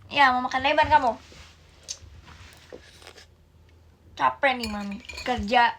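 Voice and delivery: loud scolding rant; angry tired mother. Acted. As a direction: keep yelling, worn out. (ibu capek memarahi anak dengan keras)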